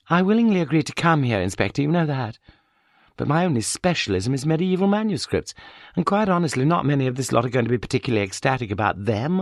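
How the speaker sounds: a touch of weary irony in her; Sheila voice. Acted.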